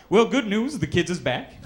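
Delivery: cheery caller. Retold or imitated. Caller cheerily telling supervisor the kids are back, hammed-up. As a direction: announce good news brightly.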